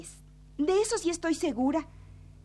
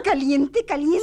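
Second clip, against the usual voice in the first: gleeful game call; 8 dB louder than usual. Acted. Hot-and-cold guessing game.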